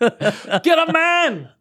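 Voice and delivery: very high, slow, laughing shriek; shrieking mom. Pretend. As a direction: screech it like a furious mother. Mom yelling at her son.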